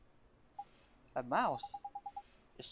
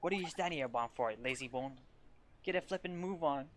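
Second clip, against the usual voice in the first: a hint of a cheeky fairy nagging; mild mock telling-off; scolding fairy sidekick. Drippy scolds Timmy.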